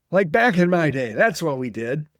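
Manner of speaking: lightly voiced old man grumbling; a hint of a cranky old elder; old man Todd. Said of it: "I will do my old man voice".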